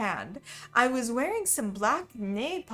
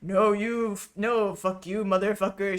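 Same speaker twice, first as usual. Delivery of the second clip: angry shout; 3 dB louder than usual. Acted. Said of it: "shouted Vampire".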